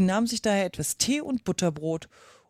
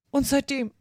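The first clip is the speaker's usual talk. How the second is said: high, sorrowful Hatter voice; sad; 7 semitones higher, 3 dB louder than usual. A narrator's reading. Hatter telling Alice his misfortune, sad. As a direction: carry on with a touch of sadness. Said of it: "sprach der Hutmacher traurig weiter".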